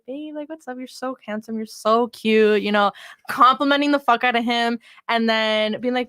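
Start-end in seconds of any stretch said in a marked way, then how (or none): 0.1-2.6 sweet, cutesy flirting voice. Pretend. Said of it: "I'm gonna be all cutesy with my cutesy voice".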